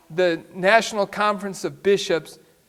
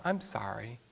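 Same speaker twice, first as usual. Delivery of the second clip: whispered apology; 7 semitones lower, 13 dB quieter than usual. Retold or imitated. Wife's fake apology, whispered.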